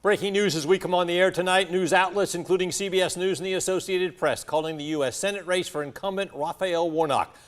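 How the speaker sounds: breaking news read; crisp TV anchor delivery. Acted.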